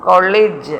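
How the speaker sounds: "college" as KOL-ij; short i in the end of "college"; correct pronunciation. Shown as a demonstration. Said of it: "The right pronunciation is".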